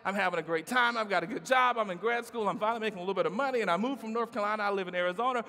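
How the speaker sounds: giddy bachelor self. Retold or imitated. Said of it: "and I'm like".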